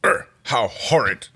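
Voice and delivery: whispered slow aghast exclamation; horrified whisper. A narrator's reading. Dominar exclaiming in whispered horror. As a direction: breathe it out in horror. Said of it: "exclaimed the Dominar".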